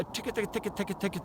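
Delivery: quick, soft ticka ticka clicks; vocal ticka sound. Shown as a demonstration. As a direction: tick it out fast under your breath. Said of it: "It's kind of an interesting little call".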